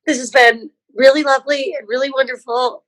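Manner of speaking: tearful. Real, not acted. Barbie tearful thanking everyone.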